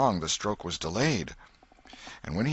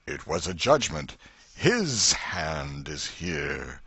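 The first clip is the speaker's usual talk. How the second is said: solemn minister; 2 semitones lower, slower than usual. Acted. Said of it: "and the minister said".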